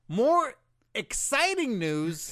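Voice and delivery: slow, loud, high hype voice; hyped-up announcer. Pretend. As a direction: oversell the excitement. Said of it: "Get your hand out of my face".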